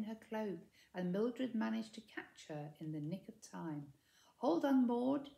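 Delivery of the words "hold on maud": loud call to her friend; yelling. A narrator's reading. Mildred yelling to Maud as she grabs her, louder. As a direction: shout it to keep her steady. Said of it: "yelled Mildred".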